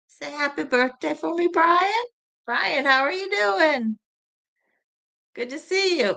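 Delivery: high, bright welcome to the chat; cheery greeting. Real, not acted. Greeting Brian in the chat, high and cheery. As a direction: sing out hello to a viewer.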